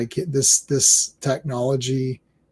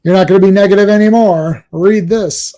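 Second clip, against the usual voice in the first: villain voice; 3 semitones higher, 6 dB louder than usual. Acted. Acting out the villain's line.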